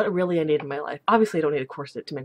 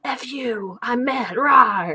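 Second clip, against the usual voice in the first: hammed-up mad outburst, higher pitch; mock angry; 5 semitones higher, 5 dB louder, much slower than usual. Imitating her own angry messages, mock mad. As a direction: play at being mad, ending on a loud growly rah. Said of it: "when I'm angry or something".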